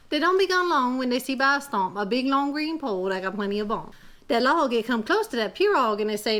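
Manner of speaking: storytelling in an imitation Cajun accent. Telling kids a Cajun tale in a Cajun accent. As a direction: read it like a Louisiana Cajun teller. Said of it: "my imitation Cajun accent".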